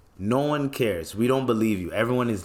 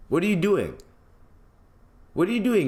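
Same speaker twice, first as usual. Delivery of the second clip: high, disbelieving double take; what are you doing, rising in disbelief; incredulous; 9 semitones higher than usual. Real, not acted. Reacting to the crying video, high incredulous disbelief.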